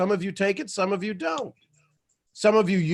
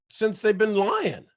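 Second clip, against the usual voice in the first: usual speaking voice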